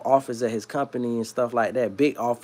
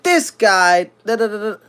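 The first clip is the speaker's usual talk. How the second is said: higher, loud mock Jewish accent; heavy Jewish accent; 7 semitones higher, 5 dB louder than usual. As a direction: imitate the boss's accented grumbling. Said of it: "mind you, heavy Jewish accent".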